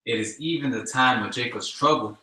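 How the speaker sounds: scripture read at full force; loud scripture reading. Acted. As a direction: proclaim it like a preacher.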